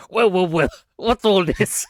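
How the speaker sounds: loud, high mock bobby voice; Cockney policeman. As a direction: play the nosy London copper, loud and high. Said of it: "So hard not to be like".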